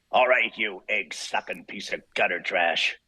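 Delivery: slow, growling tough-guy threat that climbs to a sharp yelled "Ow!"; Wolverine audition line. Acted. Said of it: "and this line was".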